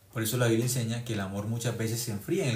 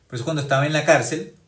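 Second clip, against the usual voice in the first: emphatic; 4 semitones higher, 9 dB louder than usual. Acted. Preacher's emphatic outburst.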